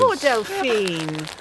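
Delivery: sorrowful pity. Acted. Sympathising over burnt friend.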